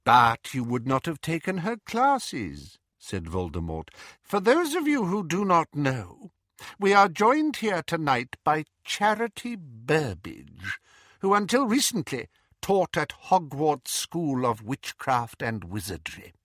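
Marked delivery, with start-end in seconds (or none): 0.0-2.8 high, cold, silky menace; sinister dark lord; Voldemort voice. Acted. Voldemort speaking. 4.2-16.3 high, cold, silky menace; sinister dark lord; Voldemort voice. Acted. Voldemort introduces captive.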